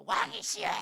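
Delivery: strained, breathy outcry to a king; hammed-up wail, drawn out; mock desperate cry. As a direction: cry out as if throwing yourself at his feet. Acted grovelling cry to the king.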